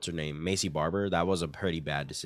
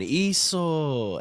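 mock yell; 8 semitones higher, 5 dB louder than usual. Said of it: "her coach kept going".

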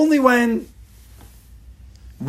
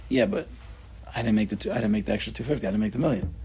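inner grumble; 5 semitones lower, 7 dB quieter, faster than usual. Retold or imitated. His inner doubting voice.

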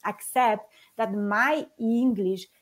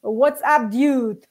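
a light, slightly louder casual dude greeting; mild mock surfer-dude hello; casual American dude; 4 semitones higher, 5 dB louder, much slower than usual. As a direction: toss it off like a laid-back American guy. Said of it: "there is someone saying".

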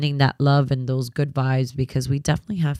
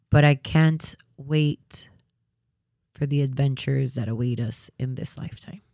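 tearful tenderness. Real, not acted. Mother-to-be to her unborn daughter, tearfully tender. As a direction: speak tenderly through welling tears, long pauses.

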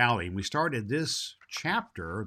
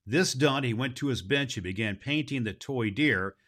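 put-on steady storybook reading for children; story narration. A narrator's reading. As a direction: read the chapter aloud to the kids. Reads the Baum story aloud.

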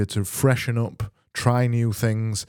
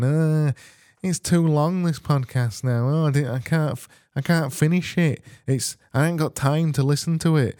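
higher-pitched mock moaning; mock complaining listeners; 5 semitones higher than usual. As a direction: imitate moaning listeners in a high voice. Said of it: "have been you going".

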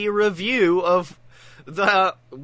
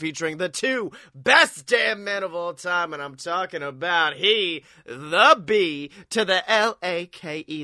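announcer hype. Pretend. Announcer intro continues.

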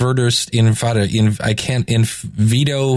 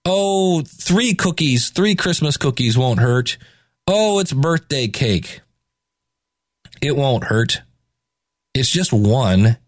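tempting inner voice; slower than usual. Retold or imitated. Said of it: "that little voice in my head that says".

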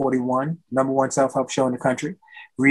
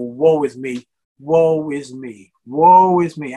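mock woe-is-me moan; 4 dB louder, slower than usual. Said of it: "not the kind of woe is me attitude you most people think of".

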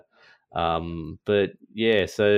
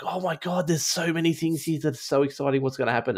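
higher, gushing fan imitation; mock excitement; 8 semitones higher than usual. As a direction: play the thrilled book reader, half-mocking. Gushing reader voiced in retelling.

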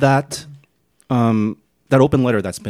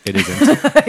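deadpan; 7 dB louder than usual. Acted. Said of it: "I'm being sarcastic".

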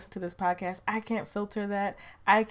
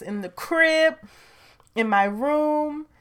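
playful slang; 7 semitones higher, 6 dB louder, slower than usual. Pretend.

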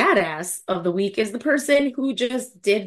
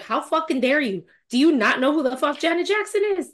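indignant, rising in pitch; mildly heated outrage; mad; 5 semitones higher, faster than usual. Real, not acted. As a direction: take offense on the singer's behalf. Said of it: "I got so mad".

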